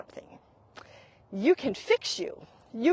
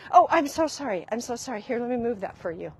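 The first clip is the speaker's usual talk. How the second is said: over-apologetic; faster than usual. Shown as a demonstration. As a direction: apologize as if you were in the way. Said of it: "Are you really sorry?".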